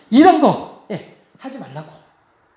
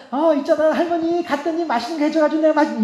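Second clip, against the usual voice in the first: put-on chattering child; 4 semitones higher than usual. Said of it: "이렇게 말 못하겠더라고요".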